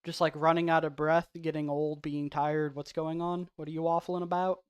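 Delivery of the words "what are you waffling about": fast, lightly Southern twang; a hint of a fake Southern accent. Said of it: "that last tint of southern accent".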